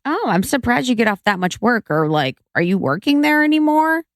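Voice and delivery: high-pitched, lightly shady mom; a little shade. Retold or imitated. Daughter imitates mom questioning her job, a little shade. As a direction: feign surprise with a small dig. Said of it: "throwing a little shade".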